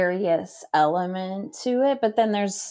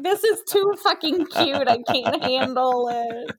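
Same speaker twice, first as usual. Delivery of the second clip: gushing; 5 semitones higher than usual. Retold or imitated. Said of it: "I'm just like".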